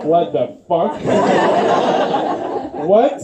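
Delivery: laughing through a stunned question; half-laugh, can't believe it; laughing, thrown by his dad's answer; laughing disbelief. Retold or imitated. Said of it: "And I was like".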